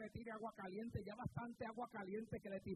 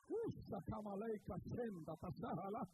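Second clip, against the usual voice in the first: speaking in tongues; 3 semitones lower than usual. Real, not acted. Speaking in tongues after praise.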